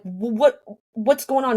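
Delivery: stammered, high-pitched retold panic; freaking out. To the nurse at the hospital, freaking out. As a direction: trip over the first word, pitch rising in alarm. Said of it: "I'm freaking out".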